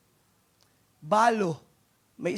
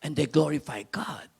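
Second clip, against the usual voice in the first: whispered verse; 5 semitones lower than usual. Acted. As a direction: breathe the line like a secret.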